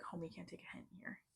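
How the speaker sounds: retold aside, under the breath; muttered brush-off. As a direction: mutter it to yourself, unheard. Retold brush-off of persistent guy.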